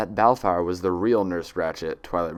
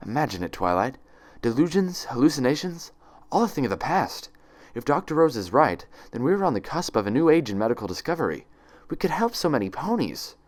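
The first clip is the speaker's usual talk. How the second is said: lifted, eager visionary tone; a touch of rapturous enthusiasm; glowing optimism; 6 semitones higher than usual. Acted. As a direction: sell the dream with bright hope. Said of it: "the glowing optimism in Ratchet's words".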